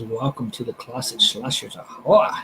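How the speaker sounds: a light mock of the horror host's spooky accented welcome; imitating spooky host. Vlogger imitating the horror streamer's greeting, mild spooky voice. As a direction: tease his catchphrase in a spooky British tone. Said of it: "always carries, like, a deep, spooky voice".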